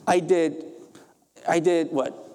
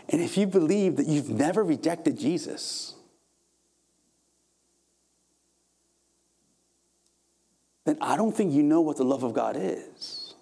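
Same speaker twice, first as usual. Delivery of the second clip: deliberately calmed-down preaching, said kindly; gentle, restrained rebuke. Real, not acted. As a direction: say a hard truth as gently as possible. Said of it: "say it in the most gentle way possible".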